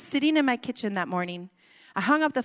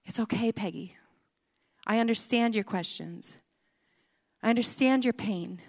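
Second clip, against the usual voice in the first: gentle reassurance. Retold or imitated. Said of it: "I heard him say nonetheless".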